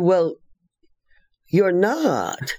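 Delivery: lightly voiced little lady; imitating Kay. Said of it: "She said".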